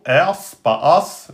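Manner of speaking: "ers" with a light, unemphatic r, slow, then "as" as the wrong version; thin ers not as. Shown as a demonstration. Teacher showing students light ers versus as. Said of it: "le hamza est aminci".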